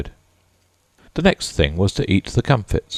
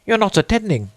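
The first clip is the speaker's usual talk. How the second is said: severe. A narrator's reading. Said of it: "said the Mouse to Alice severely".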